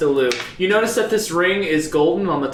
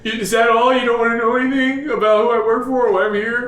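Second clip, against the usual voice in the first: incredulous villain; 6 semitones higher, faster than usual. Acted. NPC asks, surprised.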